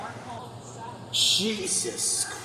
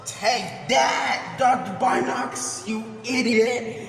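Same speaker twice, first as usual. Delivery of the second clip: gloating taunt; 2 semitones higher than usual. Real, not acted. Taunting game character after win.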